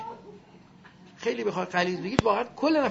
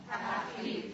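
breathy repeat; 7 dB quieter, slower than usual. Shown as a demonstration. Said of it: "به نام چی".

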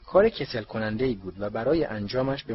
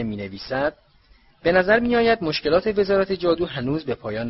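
higher, louder public reading of the article; loud mocking read; 4 semitones higher, 4 dB louder than usual. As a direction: read it out to the hall with relish. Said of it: "خیلی بلند، طوری که همه بشنوند".

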